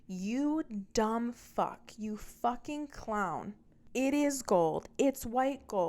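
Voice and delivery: slow, high sneering imitation of him; mocking the ex. Ex insults her in argument.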